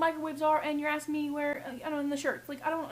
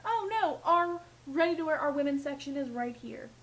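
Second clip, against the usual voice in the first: cheery helpful clerk; 3 semitones higher than usual. Retold or imitated. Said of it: "I think I was like".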